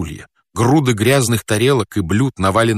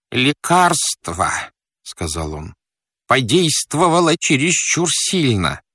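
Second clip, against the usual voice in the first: fat man's voice; 5 semitones higher, slower than usual. Acted.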